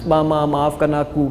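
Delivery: soft, understated tearful apology; imitated tearful plea. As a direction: mimic a son pleading softly with his mother. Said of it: "dia menangis". (menirukan anak menangis minta maaf)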